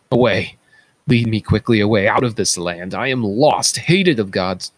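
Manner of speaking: loud, urgent plea to be led away; loud despairing outcry; anguished cry. Acted. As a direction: beg loudly and fast to be taken off. Blinded king begs to be led.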